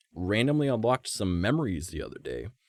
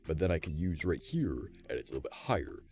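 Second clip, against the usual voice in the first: chest voice, a little above the belly; relaxed chest placement; chest resonance demo; 3 semitones lower, 5 dB quieter than usual. Shown as a demonstration. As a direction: talk softly from the chest. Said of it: "This is my chest cavity".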